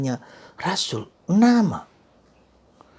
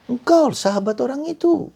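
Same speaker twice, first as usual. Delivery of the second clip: much higher and louder accusation; accusing woman; 12 semitones higher, 5 dB louder than usual. Acted. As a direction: point at him and accuse. Woman accusing Peter at trial.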